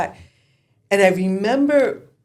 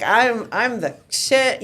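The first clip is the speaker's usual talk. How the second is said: cocky mock boast; 5 semitones higher, much slower than usual. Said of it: "I was freaking riding my horse, like, my high horse".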